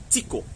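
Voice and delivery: "tiko" with the I said as a clear ee; tiko with E sound. Shown as a demonstration. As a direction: say "tiko" as tee-ko. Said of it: "It's pronounced as an E".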